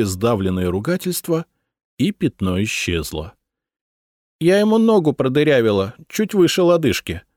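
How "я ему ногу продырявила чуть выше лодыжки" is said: higher, louder, proudly announcing her shot. A narrator's reading. Bride of Caesar proudly reporting her shot. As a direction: boast of the hit she just made. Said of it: "с гордостью заявила невеста Цезаря".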